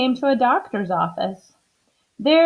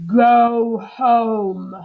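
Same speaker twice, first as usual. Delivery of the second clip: louder, sent-away order; angry doctor; 2 semitones higher, 6 dB louder than usual. Acted. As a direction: dismiss her crossly. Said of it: "he said".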